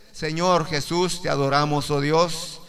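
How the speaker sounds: praying aloud to Jesus; prayer. Acted. Preacher closes the sermon praying to Jesus, in earnest worship. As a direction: lift the words up in worship.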